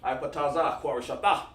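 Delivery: made-up words run together without breaks; run-on syllables. Shown as a demonstration. Teacher shows students how not to read, run-on recitation. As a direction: recite it as one unbroken string of sounds. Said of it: "You can't keep doing that".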